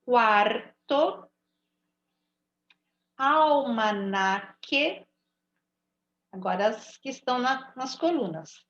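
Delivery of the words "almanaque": almanaque drawn out with a plain k and no U; slow teaching read. Shown as a demonstration. Teacher reading the word list to pupils, slowly. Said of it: "não tô ouvindo o som do U".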